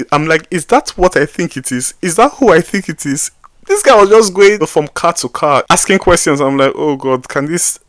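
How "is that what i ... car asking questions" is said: higher and louder, alarmed; alarmed noticing. Retold or imitated. Alarmed spotting a traffic officer at the lights. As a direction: raise the voice as the worry hits. Recognizing officer approaching cars.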